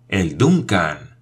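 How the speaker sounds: slow, stunned disbelief; stunned despair. A narrator's reading. Paganel realizing he boarded the wrong ship, slow despair. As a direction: let the name sink in slowly, dismayed. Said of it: "exclamó con verdadera desesperación".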